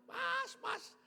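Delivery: high, loud jeering call; mimicked mocking taunt. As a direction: imitate onlookers ridiculing a hopeless fisherman. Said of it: "Orang di sana ketawa".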